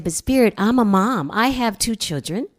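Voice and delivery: protesting to Spirit that she is a mom; pleading protest. Retold or imitated.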